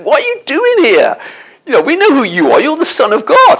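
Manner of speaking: high, strained demon voice crying out at Jesus. Acted. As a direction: cry out as the demons, voice pitched high and tight.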